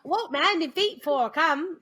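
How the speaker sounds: slow, slurred mock Cockney; bad Cockney accent. Imitating the flower girl, bad Cockney. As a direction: garble it in put-on Cockney. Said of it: "it's a bad Cockney accent".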